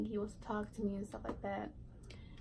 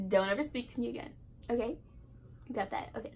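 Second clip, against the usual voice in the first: mock angry; faster than usual. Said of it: "so livid".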